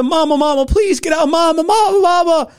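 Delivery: high, loud desperate calling; hurt boy calling mother; calling for mama. Retold or imitated. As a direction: call her out of the house. Bloodied boy calling his mother.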